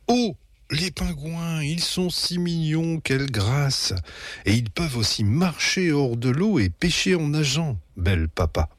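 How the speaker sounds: mother cooing at the penguins; gushing mum. A narrator's reading. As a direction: coo like a charmed mother. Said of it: "maman gushes at penguins".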